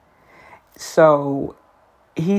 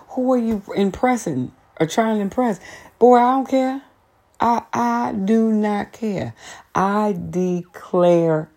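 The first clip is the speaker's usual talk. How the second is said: exasperated high rant; 7 semitones higher than usual. Retold or imitated. Exasperated rant about coworker.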